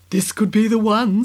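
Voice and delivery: a touch of eager excitement; lightly hopeful, bubbling up; excitedly. Acted. Queen to prince, mildly excited at the visitor. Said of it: "said the queen excitedly".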